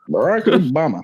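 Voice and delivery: lightly imitated presidential name, swinging up and down; a hint of a politician impression, rising then falling; Barack Obama. Shown as a demonstration. Showing the resemblance, light up-and-down impression. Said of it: "it sounds a lot like Barack Obama".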